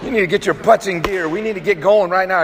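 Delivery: mock coach yelling at lazy men; gruff men's meeting push. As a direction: bark them into gear, half in jest. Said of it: "you'll get language like".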